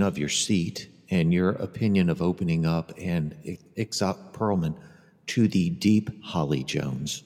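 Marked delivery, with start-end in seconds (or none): 5.3-7.2 mock announcer. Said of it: "I'm gonna change your name".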